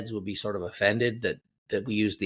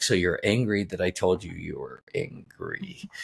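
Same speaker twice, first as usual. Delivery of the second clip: mock amused wife; 5 semitones lower than usual. Wife teasing, retold.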